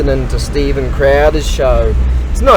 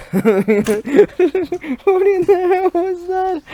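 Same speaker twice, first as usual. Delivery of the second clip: much higher, slow, laughing disbelief; startled laughing question; 3 dB quieter, much slower than usual. Real, not acted. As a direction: recoil in laughing shock. Startled by a strange creature.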